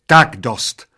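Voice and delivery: loud outburst from an angry waitress; waitress's shriek. A narrator's reading. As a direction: yell to put a stop to it. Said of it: "zaječela číšnice".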